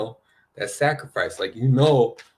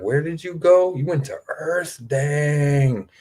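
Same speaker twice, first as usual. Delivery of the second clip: higher, incredulous voice with a laugh; mock disbelief; 6 semitones higher, slower than usual. Souls back among the stars, teasing one who went to Earth, higher and incredulous. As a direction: gasp at a soul who chose Earth. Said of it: "That's how I'm gonna be saying it".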